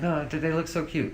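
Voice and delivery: high, drawn-out cooing; slow, high-pitched pleading gush; imitated gushing woman. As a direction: coo over adorable kids. Voices woman gushing over kids.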